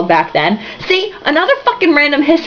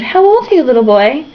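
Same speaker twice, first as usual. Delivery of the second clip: cooing lady; 4 semitones higher than usual. Acted. Woman cooing at the newsboy, high sweet lady voice. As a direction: coo down at the child. Woman coos at little boy.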